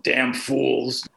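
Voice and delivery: grandfather grumbling at the ball game, imitated; muttered cursing. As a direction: curse under your breath, not loudly. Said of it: "he'd be cursing under his br-, not loudly".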